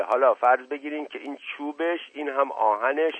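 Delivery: lightly voiced earnest servant. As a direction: servant fumbling through an explanation. Servant explains himself confusedly.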